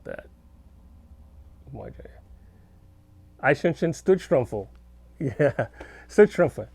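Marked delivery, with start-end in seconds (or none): 3.4-4.7 clumsy American-accented German, slowly; own bad German. Shown as a demonstration. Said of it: "That's my German". 6.1-6.7 emphatic, clumsy American-accented German; own bad German. Shown as a demonstration. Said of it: "That's my German".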